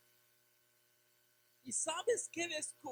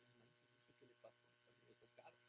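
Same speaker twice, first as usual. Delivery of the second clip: mock outsider scoffing; 13 semitones lower, 31 dB quieter, faster than usual. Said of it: "Si yo no fuera cristiano, diría".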